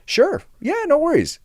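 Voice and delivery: very high-pitched, chirpy politeness; customer service charm. Retold or imitated. Front desk agent to a cowed guest, put-on charm. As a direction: switch on the service voice. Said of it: "I put on the customer service charm".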